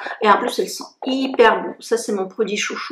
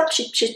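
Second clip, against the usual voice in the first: spray noise imitation; 5 dB quieter than usual. Shown as a demonstration. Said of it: "vous faites comme ça".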